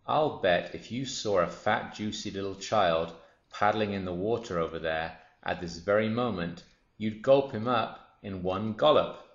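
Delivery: a hint of a boastful crocodile; goading crocodile. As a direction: goad the smaller croc, relishing the words.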